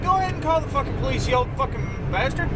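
high-pitched, heated retort; retold angry outburst. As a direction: re-enact firing back at the old man. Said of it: "I got so mad at him".

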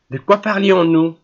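bored disdain. A narrator's reading. Générale returning to the prince, mildly bored and disdainful. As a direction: toss the question off with contempt. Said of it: "sur un ton d'ennui et de dédain".

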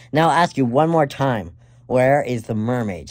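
menacing demand. Acted. Villain demands a final answer.

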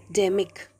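"Demic" with the weight on DEM; stressed syllable demo. Shown as a demonstration. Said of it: "We have to give a stress".

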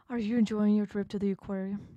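hammed-up octopus mockery; mocking host villain. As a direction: taunt the guest like a cruel tour guide. Octopus taunts the shark.

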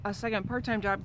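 clearing a choked throat; choking. Real, not acted. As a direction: speak through a catch in the throat. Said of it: "Excuse me, I'm choking".

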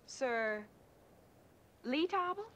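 unsure rising "Sur les tables?"; unsure question. Real, not acted. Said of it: "Sur la table".

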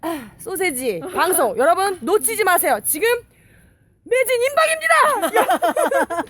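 lightly loud sales pitch; home shopping host. Acted. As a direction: push the deal like a TV host. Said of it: "홈쇼핑 버전".

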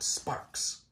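soft whispered payoff; hushed spooky whisper; whispered word. A narrator's reading. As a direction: let the word drift off in a whisper. Dramatic trailing word.

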